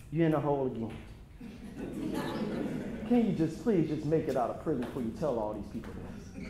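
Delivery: low, hushed mock-weary plea; quietly imitated pleading mother; imitated motherly plea. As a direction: quote a mother pleading softly, well below full voice. Mother pleading, voiced in a story.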